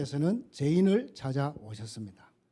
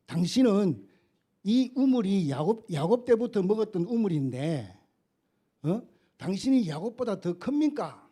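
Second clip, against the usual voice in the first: scoffing woman, pitched higher and rising to a taunt; mocking challenge; 4 semitones higher than usual. Samaritan woman taunts Jesus about Jacob's well, hammed-up scoff. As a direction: needle him: are you greater than Jacob. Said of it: "비웃는 거예요".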